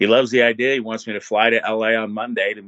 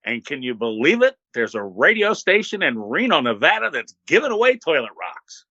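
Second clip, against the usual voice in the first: lightly imitated talk-show monologue, lilting higher; Johnny Carson; 4 semitones higher than usual. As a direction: lightly mimic a host delivering a monologue punchline. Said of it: "and he said".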